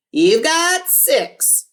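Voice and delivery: high, slow showy radio host. A narrator's reading. Cousin Ralphie answering the caller, showy radio DJ. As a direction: sell it like a DJ on air.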